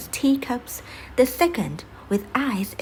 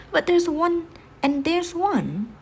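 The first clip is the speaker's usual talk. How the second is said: pitched up, louder, then slowing on the second; eager townsfolk pointing out every door; excited exclaiming; 8 semitones higher, 4 dB louder, slower than usual. Acted. Townsfolk pointing at crossed doors, excitedly exclaiming.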